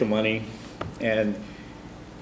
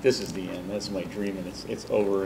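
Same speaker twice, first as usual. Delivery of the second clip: retold crying; 3 semitones lower, 11 dB quieter than usual. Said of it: "and I'm crying".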